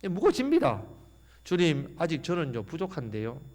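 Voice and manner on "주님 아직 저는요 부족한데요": fading to a near hush; timid excuse. Pretend. Believer excusing himself to the Lord, fading softer. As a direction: shrink away, voice dropping. Believer hesitating before God.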